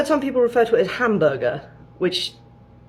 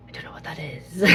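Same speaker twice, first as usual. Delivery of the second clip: hushed, puzzled, much softer; confused locals; 2 semitones lower, 14 dB quieter than usual. Retold or imitated. Imitating Canadians puzzled by British words, hushed. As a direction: trail off like a confused shopkeeper. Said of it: "they're a bit sort of like".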